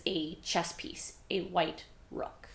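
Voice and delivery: slow hushed whisper, like a secret; whispered reveal. Real, not acted. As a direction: let it out as a secret.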